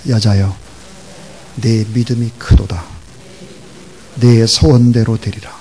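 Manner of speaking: loud, measured declaration in separate phrases; solemn lead for repetition. Shown as a demonstration. Preacher leads congregation repeating Jesus' words, solemn declaration. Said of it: "따라하세요".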